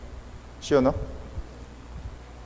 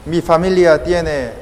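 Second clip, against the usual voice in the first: oración de ejemplo; 3 semitones higher than usual. Shown as a demonstration. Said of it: "podemos pedirle a Jesús de esa forma".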